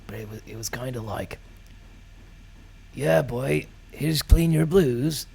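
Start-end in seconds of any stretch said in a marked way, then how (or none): 2.9-5.3 put-on failed Kerry accent. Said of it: "can't do the Kerry accent".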